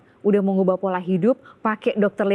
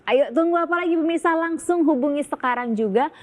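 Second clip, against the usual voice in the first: infomercial. Acted. Call to action to viewers.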